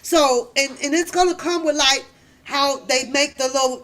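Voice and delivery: usual speaking voice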